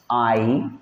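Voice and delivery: आइलैंड split slowly into आई, long pause, लैंड; syllable by syllable. Shown as a demonstration. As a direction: sound out आइलैंड in pieces, as if dictating. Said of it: "Hindi language में पहले लिख लीजिए". (आइलैंड को तोड़कर, धीरे-धीरे बोलते हुए)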